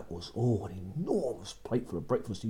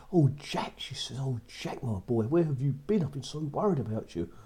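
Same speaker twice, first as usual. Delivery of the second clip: a lightly higher anxious mother; mother's relieved, fretting welcome; worried mother; 4 semitones higher than usual. Acted. Mother greets returning son.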